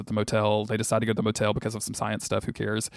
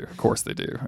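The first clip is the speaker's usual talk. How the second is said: whispered aside, no voice; 5 dB quieter than usual. Shown as a demonstration. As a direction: breathe it out as a secret. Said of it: "repeated, second take whispered".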